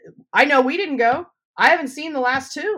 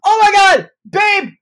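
excited squeal; 10 semitones higher, 9 dB louder, slower than usual. Retold or imitated. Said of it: "'Cause I was like".

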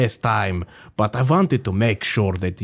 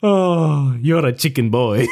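villainous gloat; slower than usual. Acted. Vampire gloats over hypnosis.

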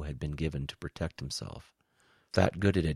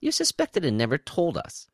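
high, louder angry accusation; 12 semitones higher, 6 dB louder than usual. A narrator's reading. Woe accuses the alien spy, angry. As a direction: raise the voice in accusation. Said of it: "now angry at this alien spy".

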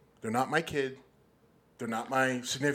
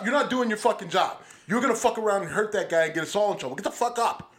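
higher, louder rebuke, quick; angry scolding; 5 semitones higher, 3 dB louder than usual. Retold or imitated. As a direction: tear into him to get up. Officer voiced scolding Chauvin.

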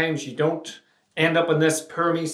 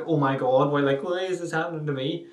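complete confusion. Retold or imitated. Mocking the people who ask, in a tone of complete confusion. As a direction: imitate someone baffled by their own bad luck. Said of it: "said in a tone of, like, complete confusion".

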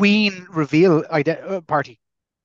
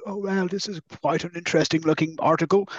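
Prince Charles impression; 5 dB quieter than usual. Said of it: "that's my Prince Charles impression".

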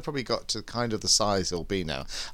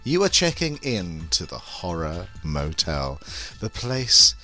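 femme fatale; 4 dB louder than usual. Acted. Sultry podcast host intro.

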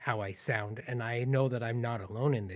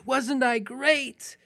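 high, loud, drawn-out boast; top-of-the-lungs shout; 13 semitones higher, 7 dB louder, much slower than usual. Retold or imitated. Nine-year-old boasting at the back of the chapel, proud shout. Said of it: "I shouted at the top of my lungs".

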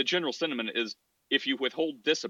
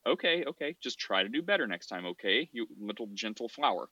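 softer, lower soothing parent; gentle reassurance; 3 semitones lower, 4 dB quieter than usual. Retold or imitated. Father soothes his sorry son, soft and tender. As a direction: coo it like comforting a delicate child. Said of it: "talk to them gently".

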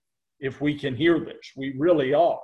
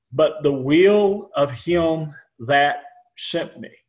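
measured, solemn Bible reading; scripture reading. Acted. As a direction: read the King James passage with reverence. Reads John six aloud.

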